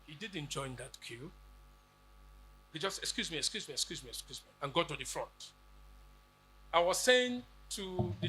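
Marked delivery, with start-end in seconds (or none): 3.0-4.5 quiet, lower, polite excuse me; soft polite murmur. Retold or imitated. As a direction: slip past the queue politely, softly. Student squeezing through long queue.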